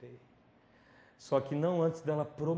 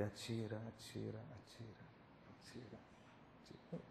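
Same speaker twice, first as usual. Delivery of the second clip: softer and softer until almost gone; fading plea; 4 semitones lower, 18 dB quieter than usual. Retold or imitated. Boy with eyes shut dares the gunman, fading to a whisper. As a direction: let each repeat die away.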